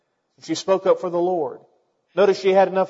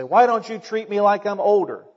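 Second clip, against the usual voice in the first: lightly voiced young person's complaint; complaining youngster; 3 semitones higher than usual. Preacher mimics young people wanting respect, mildly complaining. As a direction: mildly imitate a youngster protesting. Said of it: "Sometimes young people say".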